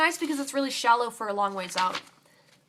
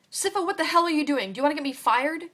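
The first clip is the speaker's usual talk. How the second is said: higher, loud furious scolding; 6 semitones higher, 6 dB louder than usual. Acted. Chef snatching the knife from Sifa, furious and loud. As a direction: tear into her, afraid for his job. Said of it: "He's furious".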